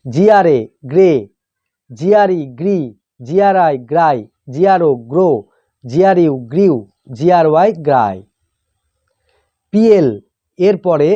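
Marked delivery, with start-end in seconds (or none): 0.0-8.2 teacher's measured spelling recitation, pausing between items; pronunciation drill. Shown as a demonstration. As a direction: spell out the letters, then sound the blend. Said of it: "উচ্চারণ এইভাবে হয়". (বানান করে উচ্চারণ শেখানো)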